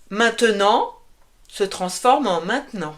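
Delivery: "maintenant" said as "maint'nant", middle E gone; dropped E. Shown as a demonstration. Teacher demos spoken French to students, swallowing the E. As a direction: squeeze "maintenant" into two beats. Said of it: "on oublie souvent le E".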